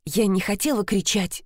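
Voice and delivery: plain reading voice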